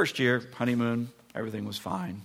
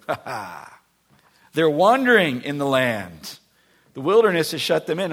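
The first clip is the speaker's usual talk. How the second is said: mocking Pharaoh; 3 semitones higher, 8 dB louder than usual.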